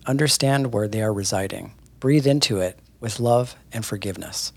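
measured, earnest reading of a spiritual post; reading a post aloud. Acted. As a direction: read it like a heartfelt message to followers. Reads Grace's post aloud.

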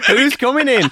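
light Love Island narrator in Scottish; Scottish accent. Pretend. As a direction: do the Scottish reality-show voiceover. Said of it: "Why am I doing a northern accent?".

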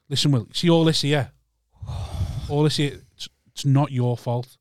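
tender therapist line. Retold or imitated. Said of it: "And he goes".

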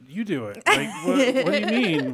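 high, laughing, baffled protest; flustered protest. Retold or imitated. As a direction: act thrown by the question, voice jumping up. Acts flustered reply to repeated question.

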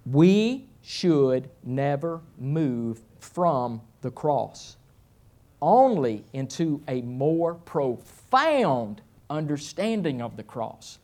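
very slow, weighty reading with long pauses; solemn first reading. Shown as a demonstration. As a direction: read it word by word, letting each phrase land. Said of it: "I'm gonna say it twice".

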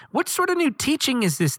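excited crowd marvelling at the new teaching. A narrator's reading. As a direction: ask it in amazement. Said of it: "they asked excitedly".

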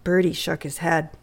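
ordinary delivery

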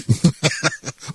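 bursts of real laughter at the absurdity. Real, not acted. Host laughing at the ruling, real laughter. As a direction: laugh out, half disbelieving. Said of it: "I am laughing".

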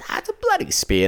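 very high mock squawk; mock indignant lady; old lady voice. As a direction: screech it like the outraged fan. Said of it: "she goes".

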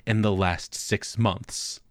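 low, slow, grave doctor voice; a hint of a solemn doctor leaning in; lightly voiced doctor. Doctor leaning in close to patient, low slow grave voice.

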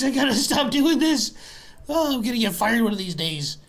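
put-on drunk goblin barkeep.

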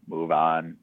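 lightly mechanical police-car announcement; even, toneless robot order; robotic voice. Retold or imitated. Police car hovering over the crime scene, robotic voice. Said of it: "a robotic voice saying".

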